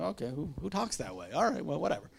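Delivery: quiet mocking dismissal; dismissive aside. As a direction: shrug it off under the breath. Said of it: "It's like".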